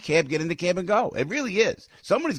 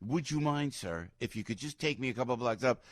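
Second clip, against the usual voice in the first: polite request; 5 dB quieter than usual. Retold or imitated. Polite contrast to the mock outburst.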